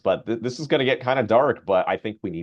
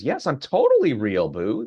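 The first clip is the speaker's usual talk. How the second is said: flirty chatbot; 4 semitones higher than usual. Retold or imitated.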